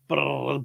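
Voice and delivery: imitated burst of gunfire; machine-gun noise. Describing machine guns spraying everywhere, imitated gunfire. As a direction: trill out rapid bullets spraying. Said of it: "all you see is".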